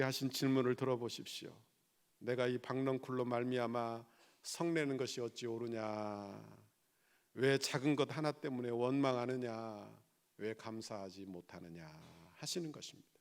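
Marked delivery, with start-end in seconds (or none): 2.2-11.9 low, measured voicing of God's question; solemn scripture quotation. Quotes God's question to Jonah. (낮고 엄숙하게 하나님의 질문을 읊듯)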